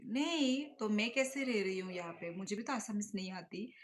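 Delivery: emphatic rebuttal. Real, not acted. Rebutting a viewer's worry.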